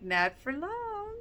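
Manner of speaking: high, slow, breathy-free menace in a put-on voice; ominous Lucas. Recapping the show, imitating Lucas's smug comeback. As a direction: drag it out like a smug threat. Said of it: "Lucas is like".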